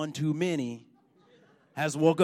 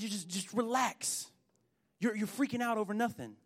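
much softer, unhurried calming voice; soft reassurance; 3 semitones higher, 8 dB quieter than usual. Acted. Elisha telling his servant to relax, soft reassurance. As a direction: soothe someone who is overreacting, quietly.

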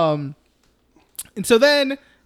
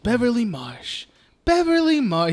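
lovestruck repeating of a crush's name, pitch climbing; lovesick boy; 4 semitones higher than usual. Acted. Smitten boy saying his crush's name walking home, dreamy. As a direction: dreamily repeat her name, higher the second time. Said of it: "He just keeps repeating her name".

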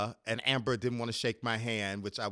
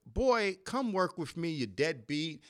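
Kathy teasing; 5 semitones higher, slower than usual. Retold or imitated. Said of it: "So Kathy was like".

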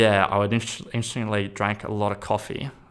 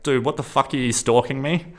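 angry retelling; 5 semitones higher, 3 dB louder than usual. Retold or imitated. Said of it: "I got angry and I'm like".

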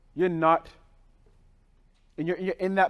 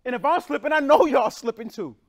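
louder, higher teasing call-out; playful call-out; 3 semitones higher, 6 dB louder than usual. Real, not acted. Pastor K teasing the congregation, loud and playful. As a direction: call the crowd out with a grin.

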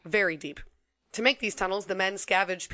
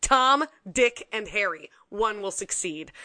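British officer voice; 2 semitones higher, 4 dB louder, slower than usual. Retold or imitated. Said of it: "Bushel said at one of their meetings".

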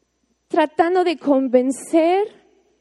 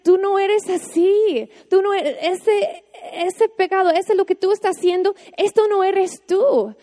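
Jesus gently telling a listener who they really are, higher and tender; gentle voice of Jesus; 5 semitones higher than usual. Retold or imitated. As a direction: speak as Jesus lifting someone up, higher and unhurried. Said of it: "Jesús nos dice".

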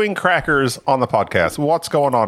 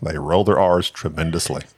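lower, rolled-R Scottish burr; mock Scottish accent; 8 semitones lower than usual. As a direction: overdo the Scottish rolled R's. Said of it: "asked to do a Scottish accent".

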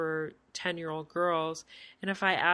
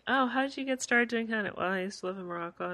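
robot voice; 4 semitones higher, faster than usual. Retold or imitated. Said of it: "say it in a robot voice".

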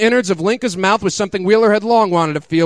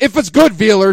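frustrated yell; 2 semitones higher, 5 dB louder than usual. Acted. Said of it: "she yelled in frustration".

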